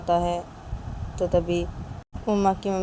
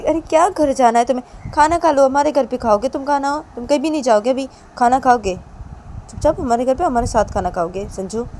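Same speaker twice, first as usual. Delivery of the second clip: high, loud bossy mother voice; pressing the guest to stay for lunch; mother insisting loudly; 4 semitones higher, 6 dB louder than usual. Acted. Mummy ज़बरदस्ती खाना खिलाती. (ज़ोर से ज़िद करती माँ की आवाज़)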